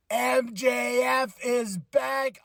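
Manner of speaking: slow, drawn-out excited call; hyped announcement. Real, not acted. Reviewer announcing MJF's return, drawn-out hype. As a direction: let the name land like big news.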